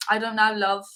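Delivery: lightly imitated British accent. Retelling baffled locals' answer, lightly British accent. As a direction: put on a touch of British, at a loss. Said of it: "I'm loving your British accent".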